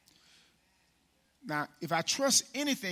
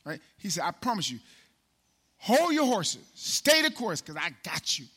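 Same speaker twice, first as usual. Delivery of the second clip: preaching. Acted. God's promise preached.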